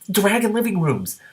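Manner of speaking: high, slow, thrilled exclamation; slow delighted squeal of wonder. Real, not acted. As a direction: savour the idea with glee. Delighted reaction to the story.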